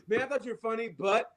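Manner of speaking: fake-nice then cut off; imitating a fan at the comedy show, fading laughing; mock fan then snap. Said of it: "imagine at the comedy show".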